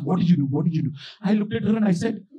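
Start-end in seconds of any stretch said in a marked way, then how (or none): 0.0-0.9 mother asking. Retold or imitated. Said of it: "She asked".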